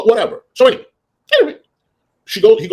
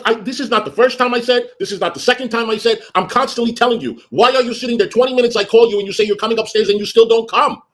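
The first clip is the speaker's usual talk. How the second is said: high-pitched nagging tirade; exasperated scolding; 9 semitones higher than usual. Retold or imitated. Boss repeats her complaint to housekeeper, exasperated scolding. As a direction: lay into him, retelling the row.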